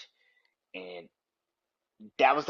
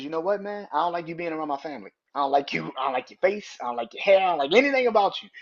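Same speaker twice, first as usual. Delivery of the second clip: starts firm, ends loud and higher; building anger; 4 semitones higher, 5 dB louder, faster than usual. Retold or imitated. Jey telling Sammy off, building to a loud rant. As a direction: pile on the dislike, getting louder each line. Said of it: "And Jay says".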